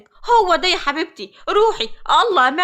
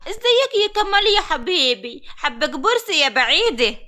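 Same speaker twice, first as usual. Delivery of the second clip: mocking rival girl. The Saidi girl mocks her rival greeting Kamal, simpering. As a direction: mimic the rival sweet-talking Kamal. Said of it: "قال إيه؟".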